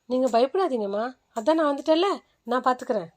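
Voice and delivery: calm doctor. Acted. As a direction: soothe the frightened patient.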